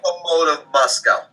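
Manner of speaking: says the team name in a Russian accent; a light Russian accent on the club name, done on request. Shown as a demonstration. Host asks for it in Russian, light Russian accent. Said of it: "give me the accent".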